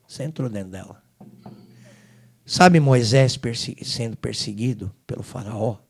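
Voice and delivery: Senhor falando baixo e mais grave, com ternura; voz divina baixa e serena. Retold or imitated. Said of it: "o senhor fala pra mim assim". (o Senhor consola o filho no aeroporto, em voz baixa)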